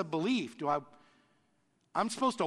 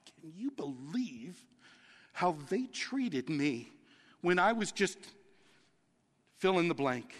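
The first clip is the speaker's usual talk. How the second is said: mock whiny complaint; 2 semitones lower, 3 dB quieter than usual. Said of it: "how many of us are like".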